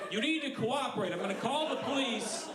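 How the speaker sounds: high, pushy guard threat; high mock authority. Telling the crowd about the maze guard, high mock stern warning. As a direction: squeak out the police threat. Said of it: "And he's like".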